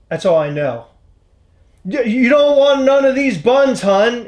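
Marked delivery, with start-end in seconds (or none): 1.9-4.3 quoting the rapper. Retold or imitated. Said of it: "Is that what he says?".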